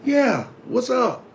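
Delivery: high, slow, irritated "yeah, what's up"; answering a sibling's call while busy, annoyed. Shown as a demonstration. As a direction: drag it out like you're interrupted mid-task. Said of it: "take it out on others by my tone of voice".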